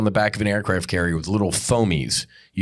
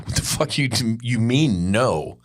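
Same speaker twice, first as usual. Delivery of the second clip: retold outrage. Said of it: "I'm like".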